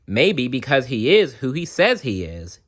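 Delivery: put-on a boy daring to believe; thoughtful child.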